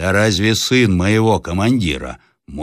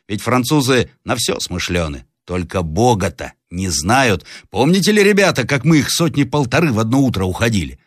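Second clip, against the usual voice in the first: higher-pitched, animated peasant urging his fellows; lightly voiced peasant; 5 semitones higher than usual. Peasant arguing to villagers about unmasking the captive, animated role voice. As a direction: voice a peasant reasoning with the crowd. Peasant in blue coat addresses the others.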